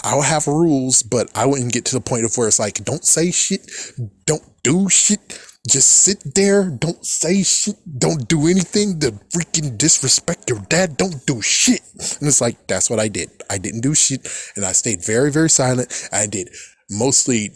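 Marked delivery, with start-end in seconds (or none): 2.8-11.8 imitating strict dad. Voicing strict dad's rules.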